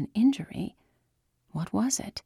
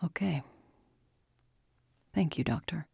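small voice; 2 semitones lower, 5 dB quieter than usual. A narrator's reading. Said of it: "Chen's usually strong voice sounded small".

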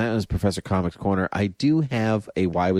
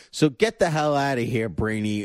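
playful higher-pitched send-off; mock dismissive; 4 semitones higher than usual. Host pretending to scrap Brainy and Lex's quotes, mock dismissive. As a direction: banish them jokingly, laugh breaking in.

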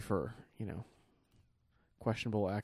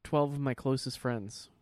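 put-on a rich kid whining to Mommy and Daddy; pleading child tone, pitched up; whiny rich kid voice; 4 semitones higher than usual. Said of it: "if you're like".

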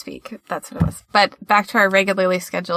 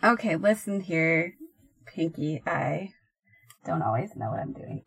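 mock threatening; 2 semitones lower, 8 dB quieter than usual. Mock threat to co-host "Pinky.

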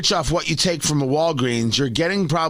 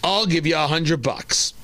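mock generous offer; 3 semitones higher, slower than usual. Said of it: "wants to give his money".

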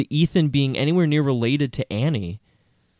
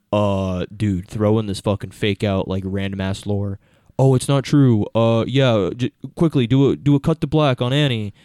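careless writer voice. Retold or imitated. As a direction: ramble like a lazy screenwriter. Imitating writers pitching scenes.

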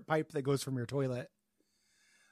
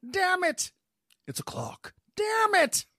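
frustrated shout; 3 dB louder, slower than usual. Acted. Riddler acting frustrated.

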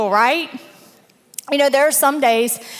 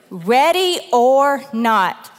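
slow and emphatic; much slower than usual. Shown as a demonstration. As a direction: stretch Ready or Not slowly. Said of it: "this is the title for today".

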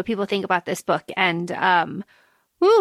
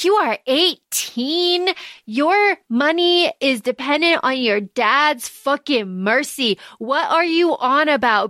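incredulous retort; 3 semitones higher than usual. Retold or imitated. Woman telling eighteen-year-old lover to get real, mock exasperated.

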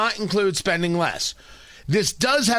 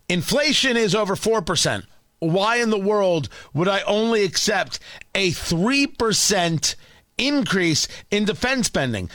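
Lindsey Graham impression; 2 semitones higher than usual. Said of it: "exclusive audio of Lindsey Graham".

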